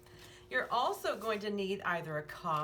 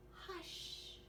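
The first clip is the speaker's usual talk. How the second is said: a soft breathy hush, much quieter; whispered hush; 12 semitones higher, 13 dB quieter than usual. A narrator's reading. The old lady hushing the room, whispered. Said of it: "a quiet old lady who was whispering".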